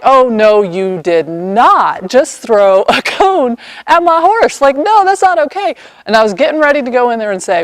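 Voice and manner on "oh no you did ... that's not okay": protective owner objecting; retold outrage. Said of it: "Now I'm like".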